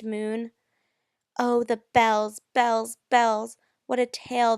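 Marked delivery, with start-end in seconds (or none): 1.4-4.6 bells, bells, bells called out loud. Acted. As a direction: cry out the bells with alarm. Dramatic poem recitation, bells clanging.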